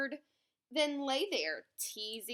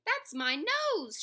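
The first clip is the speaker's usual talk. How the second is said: high, slow indignant shriek; 10 semitones higher, 7 dB louder, slower than usual. A narrator's reading. Shrew grabbed by mistake in the scramble, shrieking. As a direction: shriek it in loud protest. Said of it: "Shrew shrieked".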